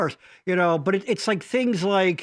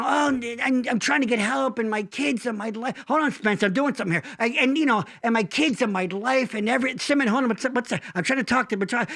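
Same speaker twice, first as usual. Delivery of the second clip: Larry impression; 3 semitones higher than usual. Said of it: "So Larry would be like".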